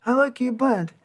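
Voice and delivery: a hint of a broken-English Italian fan; Italian accent. Mimicking the Italian man's compliment to the band, light Italian accent.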